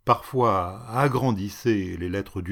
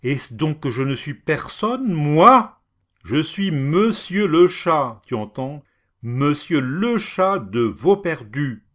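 higher and much louder, striking; enraged shouting; 5 semitones higher, 8 dB louder than usual. Acted. Cruel lord shouting as he strikes the woman. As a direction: yell while beating her with the cane.

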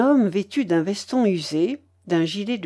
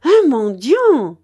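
slow, high, drawn-out shout; loud cry; 6 semitones higher, 7 dB louder, slower than usual. A narrator's reading. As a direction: call out loudly for all to hear. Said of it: "cria la babouchka". (cri fort, aigu et traînant)

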